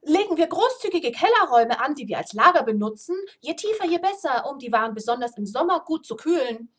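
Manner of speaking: loud, boisterous dwarf speech; hearty dwarf talking loudly. Acted. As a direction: boom it out over the feast. Dwarf holds forth at feast.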